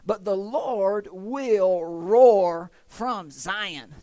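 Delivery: drawn-out, booming proclamation; booming scripture reading. Acted. Preacher reading scripture to church, booming and drawn out. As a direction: stretch it out slowly, loud and mighty. Reads the roaring verse dramatically.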